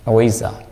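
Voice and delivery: "Avijja" as ah-WAY-zah, with w and z; Burmese pronunciation. Shown as a demonstration. Teacher repeating the local form for students, Burmese pronunciation of "Avijja". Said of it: "our pronunciation is".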